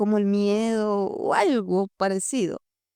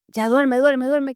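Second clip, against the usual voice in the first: louder, impatient dad telling her to sleep; annoyed dad; 4 semitones higher, 5 dB louder, slower than usual. Retold or imitated. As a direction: hush her like a tired father. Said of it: "mi papi responde". (papá molesto, más fuerte, mandándola a dormir)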